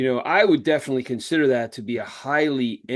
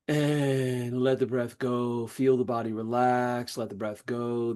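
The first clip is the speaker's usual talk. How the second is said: unhurried breathwork instructor, easing along; guided breathing. Shown as a demonstration. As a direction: guide them through long exhales, stretching the words. Leads a guided breathing practice.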